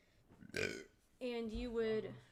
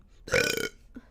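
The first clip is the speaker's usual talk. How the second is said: loud burp; 9 dB louder than usual. Real, not acted. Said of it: "Headphone warning".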